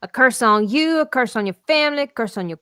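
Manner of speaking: Mushu-style mock curse; hammed-up dramatic curse; laying a curse. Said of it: "I recently did a Mushu".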